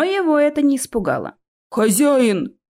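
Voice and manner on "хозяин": loud call out; a loud cry for help; shout. Acted. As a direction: call for the master. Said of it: "крикнул тролль".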